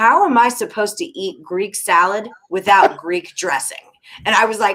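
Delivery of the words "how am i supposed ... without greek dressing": mock deadpan, utterly serious, no joke. Retelling a blind date's complaint to a waitress, imitating someone dead serious. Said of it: "dead serious and goes".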